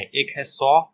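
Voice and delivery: 'सॉ' starting with an s hiss; soft C sound. Shown as a demonstration. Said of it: "सी का दो sound है". ('सॉ' में स की ध्वनि अलग दिखाएँ)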